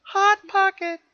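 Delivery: very high, loud gleeful cry; excited shout. Real, not acted. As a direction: shout it like a jingle. Excited cry about the snack.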